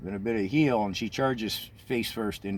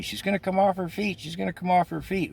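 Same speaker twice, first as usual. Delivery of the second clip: screaming warning; 10 semitones higher than usual. Retold or imitated. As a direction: yell it at the rider in alarm. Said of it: "screaming at me".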